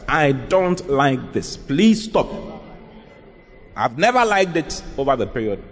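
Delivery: mean it, each word deliberate; serious refusal. Shown as a demonstration. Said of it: "by being serious about it".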